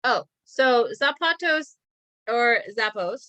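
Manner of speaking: "Zapatos" then "Zappos", slow and spelled out; two ways to say it. Shown as a demonstration. Teacher offering two pronunciations of the company name. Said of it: "depending on how you wanna pronounce it".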